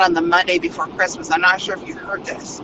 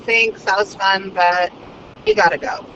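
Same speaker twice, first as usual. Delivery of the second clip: dismissive brush-off. Retold or imitated. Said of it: "I'm like".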